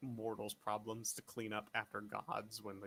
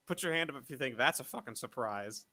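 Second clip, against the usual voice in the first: sarcastic; 4 dB louder than usual. Real, not acted. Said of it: "I am being a sarcastic asshole".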